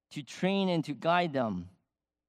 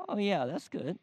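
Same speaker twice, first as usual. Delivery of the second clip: feigned calm; 4 semitones higher than usual. Retold or imitated. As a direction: play it cool, though thrilled. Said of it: "I had to say calmly".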